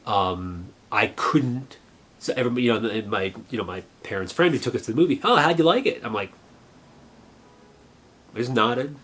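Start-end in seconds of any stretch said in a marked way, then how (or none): 5.2-6.0 high, louder cheery question; imitated eager adult. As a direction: ask the kids brightly, pitched up. Parents' friend asks the kids eagerly.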